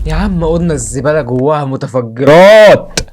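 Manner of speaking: drawn-out complaint rising to a loud yell; exasperated protest. Real, not acted. Gamer protests the bin full of explosives, exasperated. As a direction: protest slowly, then blare the last word.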